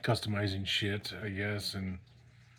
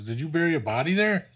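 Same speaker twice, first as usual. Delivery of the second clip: higher, louder imitated disbelief; retold incredulous question; 6 semitones higher, 6 dB louder than usual. Cop asking friend about a body, incredulous. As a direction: question him like a startled cop.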